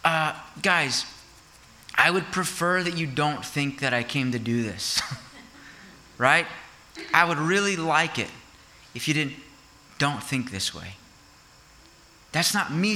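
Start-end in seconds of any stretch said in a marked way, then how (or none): 0.0-11.0 mock timid request. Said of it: "he's not saying to us".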